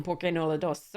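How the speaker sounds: badly faked, light Spanish accent; awful Spanish accent. Offering viewers both cards, in an awful Spanish accent. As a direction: try a half-hearted Spanish accent. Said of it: "most awful Fre-, you know, Spanish accent".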